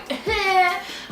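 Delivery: high, gleeful acted laugh; put-on happy chuckle; pleased giggle. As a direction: let out a high little laugh of relief. Acts relief at free day.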